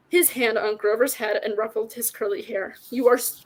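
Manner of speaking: measured read-aloud with light character acting; story narration. A narrator's reading. Reader shares a favorite fantasy book with listeners, story narration. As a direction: read the tale out clearly and steadily.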